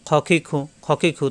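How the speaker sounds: syllable trios run together; brisk pronunciation drill; quick recitation. Shown as a demonstration. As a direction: rattle off each trio without delay. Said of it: "তাড়াতাড়ি উচ্চারণ হবে".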